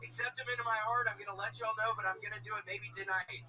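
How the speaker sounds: high, worked-up declaration, easing down; fervent testimony. Real, not acted. Comic testifying that Flipper will save him, fervent. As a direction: testify with rising zeal, then settle.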